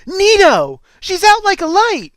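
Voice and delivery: high-pitched full shout; loud, gleeful-kid holler. Acted. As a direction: shout it to the heavens. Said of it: "maybe don't shout to the heavens".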